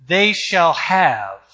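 "They shall have" slow and weighty; emphatic. Retold or imitated. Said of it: "he said emphatically".

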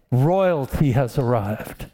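slow, lightly imitated evangelist's declaration; evangelist's manner of talking. Preacher repeating an evangelist's arrival line, slow light imitation. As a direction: declare it slowly and directly, like the evangelist. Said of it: "That's how he talked".

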